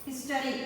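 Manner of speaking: "history" said carefully, first syllable stressed; HIS-to-ry, weight up front. Shown as a demonstration. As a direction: lean on "his" at the start of "history". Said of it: "H is stressed".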